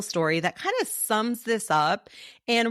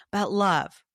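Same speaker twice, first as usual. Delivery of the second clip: whispered aside. Real, not acted. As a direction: lean in and whisper it. Intimate aside to the listener.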